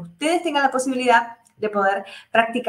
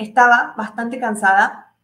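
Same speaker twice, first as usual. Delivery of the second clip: cansada pushed louder; stress on cansada; 5 dB louder than usual. Shown as a demonstration. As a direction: lean on the word cansada. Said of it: "estoy poniendo énfasis al cansada".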